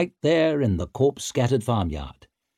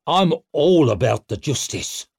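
sarcastic; 5 semitones higher, 4 dB louder than usual. A narrator's reading. Stour mocking Brock.

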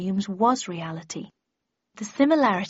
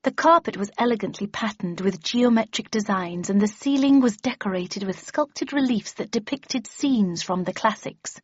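confident, inflected recitation; expressive reading aloud. A narrator's reading. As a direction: read it out as if to a room. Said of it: "expressive and expansive".

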